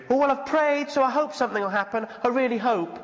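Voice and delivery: lightly mock the lazy pray-and-hope attitude; mock half-hearted hope. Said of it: "attitude of".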